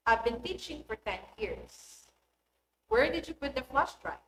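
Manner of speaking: teacher's example sentences settling down on "years" and "drive"; falling intonation. Shown as a demonstration. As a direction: pitch drops at the end on "years" and "drive". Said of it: "falling intonation".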